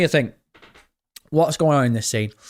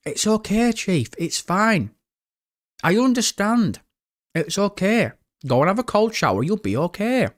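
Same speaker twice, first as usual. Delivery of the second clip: a hint of mock sympathy, pitched higher; mock consoling; 6 semitones higher than usual. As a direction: pretend to comfort him, teasing. Mock consoling a chat viewer.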